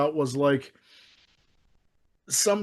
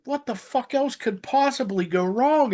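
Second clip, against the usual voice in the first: retold exasperation; 7 semitones higher than usual. Retelling exasperation at the film.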